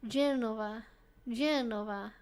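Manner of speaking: GENOVA with a v, copied carefully; Italian pronunciation. Shown as a demonstration. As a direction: try out the Italian GENOVA, slightly tentatively. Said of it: "learn how to pronounce Genoa".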